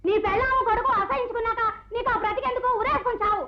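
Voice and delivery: high-pitched scornful rebuke; scolding. Acted. Women berate the disgraced father. (తిట్టిపోస్తూ)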